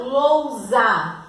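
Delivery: "lousa" slowly, lou-za, with a clear Z; "lousa" drawn out to show the S as Z; sounding out Z. Shown as a demonstration. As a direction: stretch "lousa" in two syllables. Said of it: "ele tem o som de Z".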